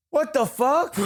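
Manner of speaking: high-pitched incredulous outburst; retold disbelief, voice jumping up; baffled. Retells baffled reaction to smoke.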